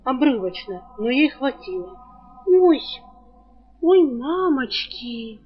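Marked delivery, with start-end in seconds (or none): 2.5-5.4 dismayed oh no. Acted. Girl remembers last night's shame.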